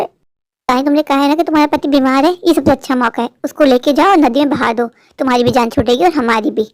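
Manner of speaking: scolding rich sister. Acted. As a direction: brush her off with contempt.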